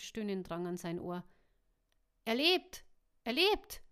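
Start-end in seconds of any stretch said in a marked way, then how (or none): 2.2-2.8 high, loud cry of relief; excited shout. A narrator's reading. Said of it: "schrie er aufgebracht". 3.2-3.8 even higher, loud repeated cry; louder excited shout. A narrator's reading. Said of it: "schrie er aufgebracht".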